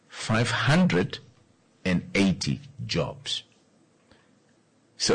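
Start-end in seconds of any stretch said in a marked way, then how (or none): 0.1-3.4 slow, weighted words with pauses between; slow emphatic count; said slowly. Shown as a demonstration. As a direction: let each word land slowly. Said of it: "let me say that slowly".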